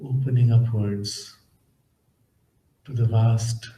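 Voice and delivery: measured, calm instructions, leaving space between phrases; guided meditation. Acted. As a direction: gently guide listeners inward, unhurried.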